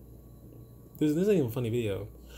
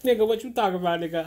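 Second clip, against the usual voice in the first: mock incredulous reaction; 5 semitones higher, faster than usual. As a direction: exaggerate your disbelief for a laugh. Mock reaction to posts seen online.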